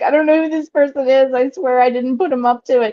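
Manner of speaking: high, put-on frantic, tearful, hysterical crying. Recounting running to teachers after being trolled, the speaker replays their past self, retelling hysterical crying. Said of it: "I'm like hysterical".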